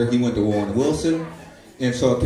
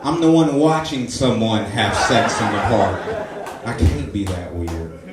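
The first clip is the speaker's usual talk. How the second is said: indignant protest; 4 semitones higher, 3 dB louder than usual. Retold or imitated. Indignant retort to homeless man.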